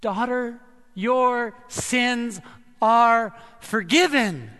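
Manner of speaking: slow, ringing words of assurance; sweetest assurance. Acted. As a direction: proclaim forgiveness to her with full conviction. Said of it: "says the sweetest words of assurance".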